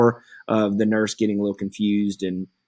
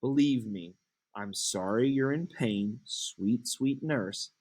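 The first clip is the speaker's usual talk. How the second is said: coaxing Juliet; 6 semitones higher than usual. Acted.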